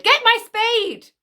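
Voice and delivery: high, drawn-out holler; mock command shout. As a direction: shout the order, slow and high. Mock order to dig up stone.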